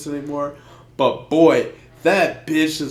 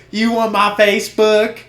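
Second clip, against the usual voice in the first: mock girly voice; 7 semitones higher, 7 dB louder than usual. Girl voiced in a story.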